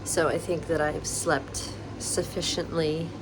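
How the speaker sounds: talking with a retainer in; wearing a retainer. Real, not acted. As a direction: speak around a retainer. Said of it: "I have my retainer in still".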